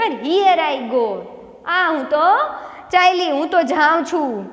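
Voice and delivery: mild mock shout, slow on the English; joyful shout. Teacher voices the girl as her bicycle starts moving, joyful shout. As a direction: call it out as if riding off happily. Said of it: "મોટી મોટી બૂમો નીકળે છે".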